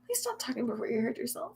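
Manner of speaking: softly whispered replay of the line; whispered repeat. Shown as a demonstration. Streamer repeating chat's quip to herself, whispered. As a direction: savour the joke in a whisper. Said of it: "I really like that".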